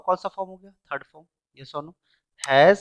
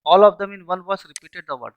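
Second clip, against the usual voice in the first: slow reading; 3 semitones higher, 5 dB louder, much slower than usual. Shown as a demonstration. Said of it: "आपको अलग से करने की जरूरत नहीं".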